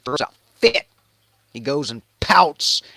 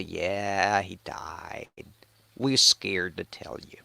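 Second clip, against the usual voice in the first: low, hushed admission; scared servants; 5 semitones lower, 8 dB quieter, slower than usual. Acted. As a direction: break bad news softly and timidly. Scared servants break bad news.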